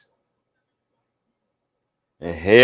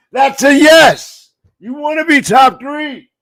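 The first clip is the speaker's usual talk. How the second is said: much higher and louder, yelling the big play; hyped shouting play-by-play; 10 semitones higher, 4 dB louder than usual. Real, not acted. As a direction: scream it like the bomb just landed. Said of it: "had to give you that energy".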